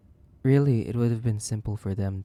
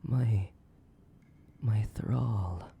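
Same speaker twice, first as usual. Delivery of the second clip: possessive whisper; much slower than usual. Acted.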